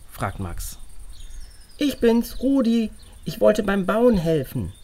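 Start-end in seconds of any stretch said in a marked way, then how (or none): 1.8-4.7 put-on higher, louder boy through a can; calling in over a string phone; tin can phone. A narrator's reading.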